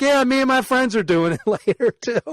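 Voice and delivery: high-pitched retelling through a light laugh; imitating laughing clerk. Liquor store girl sharing her plans with a customer, mock laughing. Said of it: "And she starts laughing".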